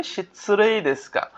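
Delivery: শিৎসু রে দেশ গা slowly and joined, no u after দেশ; model pronunciation. Shown as a demonstration. Teacher answering how it is pronounced, model pronunciation. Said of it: "উচ্চারণটা কি হবে?".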